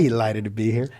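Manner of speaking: a hint of a genial radio host greeting; mild, lilting host welcome; Cy Kellett impression. Co-host keeps up the Cy Kellett impression, lightly voiced. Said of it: "I hear the inflections".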